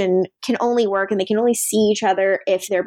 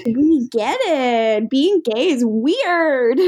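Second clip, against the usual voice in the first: sarcastic drawl; 3 semitones higher, much slower than usual. Real, not acted. Sarcastic slow comment.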